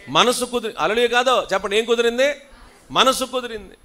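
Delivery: high, loud prompt to the congregation; loud call and response. Shown as a demonstration. Pastor calling the congregation to respond loudly. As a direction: rouse them to answer. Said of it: "స్తోత్రం చెప్పండి గట్టిగా".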